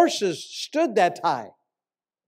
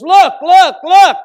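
higher and loud, urgent imitated yell; retold yell; 10 semitones higher, 15 dB louder, slower than usual. Prophet to the pastor at the hotel window, an urgent yell. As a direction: shout it to make him turn and look. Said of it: "'cause he yelled at me".

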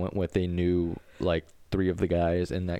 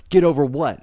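louder, higher imitation of an offended commenter; mock indignation; 8 semitones higher, 8 dB louder than usual. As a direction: imitate his affronted comeback. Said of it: "he was like".

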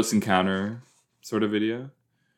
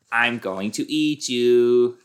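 slow, menacing monster threat; slower than usual. Pretend. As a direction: drag it out like a hungry beast. Voicing the shark.

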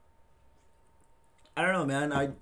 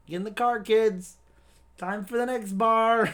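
sweet creepy coaxing; 7 semitones higher, 4 dB louder than usual. Pretend. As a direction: lure the kids in, sing-song and sly. Acting drunk driver voice.

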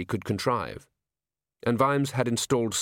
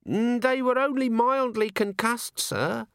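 put-on higher, earnest young dwarf; eager young recruit answering his boss, pitched up; a young dwarf explains his blunder to the commander, eager and high; young dwarf alchemist; 12 semitones higher, slower than usual. Dwarf answers about bodies.

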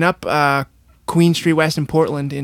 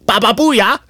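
higher mock Aussie catchphrase; goofy greeting; 7 semitones higher, 5 dB louder, slower than usual. Husband greets George with catchphrase, higher and playful. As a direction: toss off the odd greeting like a mate. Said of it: "And then he's like".

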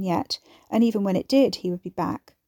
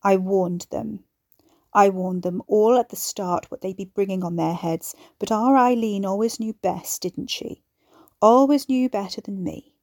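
hard and cold. Acted. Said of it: "her voice was hard and cold".

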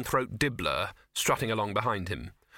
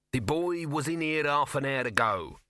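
squeaked; 3 semitones higher than usual. Acted. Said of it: "he squeaked".

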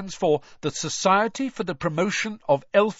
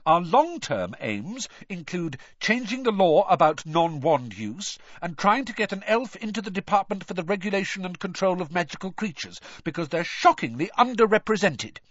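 high, raised, insistent speechifying; talking over someone; 9 semitones higher than usual. A narrator's reading. Hermione reciting her aims over Ron, loudly. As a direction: plough on as if nobody had objected. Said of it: "speaking even more loudly than Ron".

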